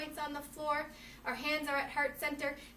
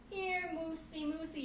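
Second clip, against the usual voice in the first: softer cautious call; coaxing call; 3 semitones higher, 7 dB quieter than usual. Shown as a demonstration. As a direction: tempt him with a carrot. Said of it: "Bait that moosey".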